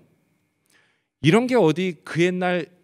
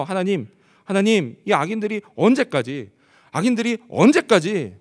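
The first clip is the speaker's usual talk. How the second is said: mildly urgent appeal to God, pitched up; urgent plea; 4 semitones higher, 4 dB louder than usual. Acted. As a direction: plead a little higher, repeating for emphasis. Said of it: "그만큼 다급했다라는 거예요". (다소 다급하게 하나님께 호소하듯)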